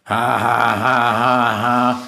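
monotone, mechanical ha-ha; robot laugh. A narrator's reading. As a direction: laugh in evenly spaced syllables. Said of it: "lacht Globus".

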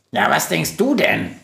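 mock-incredulous retort; scoffing. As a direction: toss it back as if obvious. Günther scoffs at her surprise.

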